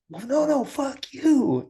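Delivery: retold comeback. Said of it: "And the guy goes".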